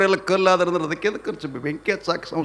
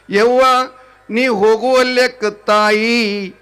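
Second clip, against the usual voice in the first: demo lament; 4 semitones higher, 5 dB louder than usual. Shown as a demonstration. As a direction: show how to cry the proper way. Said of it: "ಹೆಂಗಂದ್ರೆ".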